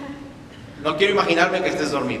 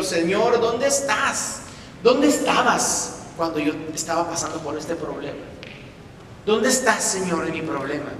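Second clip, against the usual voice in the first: pleading prayer. Acted. Believer pleading with the Lord in a hard trial. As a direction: ask like someone abandoned.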